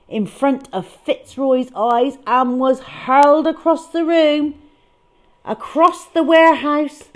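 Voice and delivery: rising excitement, fling the words; breathless drama. A narrator's reading. Storyteller thrilled as the mouse goes flying. Mouse hurled across room.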